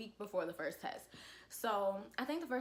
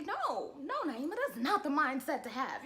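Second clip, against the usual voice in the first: self-scolding pep talk; 5 semitones higher, 4 dB louder than usual. Retold or imitated.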